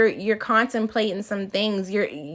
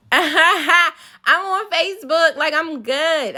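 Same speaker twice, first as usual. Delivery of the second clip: high, slow, laughing through the words; 7 semitones higher, slower than usual. Real, not acted. Laughing as she tells viewers she didn't need YouTube. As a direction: giggle out the brush-off. Laughing while listing apps.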